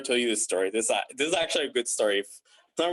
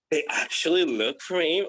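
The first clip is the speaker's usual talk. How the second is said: retold mild disbelief, slightly higher; mildly shocked; 4 semitones higher than usual. Job seeker recalling a surprise email, mildly shocked. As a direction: quote your own surprised reaction. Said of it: "kind of shocked".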